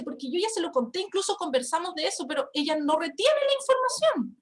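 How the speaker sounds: exasperated. Retold or imitated. Daughter tells mother someone forgot, mildly exasperated. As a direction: imitate a daughter's frustrated complaint, mildly. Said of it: "me da rabia".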